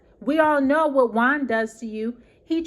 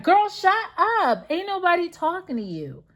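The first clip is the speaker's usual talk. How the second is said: telling them to shut up; 6 semitones higher than usual. Real, not acted. Vlogger tells Mia off while recapping the show, sassy and dismissive. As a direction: snap back at a castmate, then drop it dismissively. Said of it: "I don't mean to be telling people to shut up".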